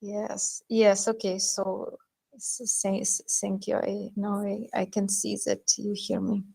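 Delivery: barely audible. Real, not acted. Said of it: "but your voice is very low".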